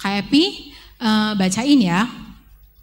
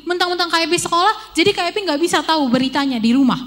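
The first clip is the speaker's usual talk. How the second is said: high, loud, fast complaint; upset teen protesting at her family; angry outburst; 7 semitones higher, 3 dB louder, faster than usual. Retold or imitated. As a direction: let the hurt anger pour out. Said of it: "K P marah".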